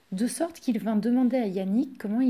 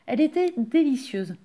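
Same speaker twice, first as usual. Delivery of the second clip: usual speaking voice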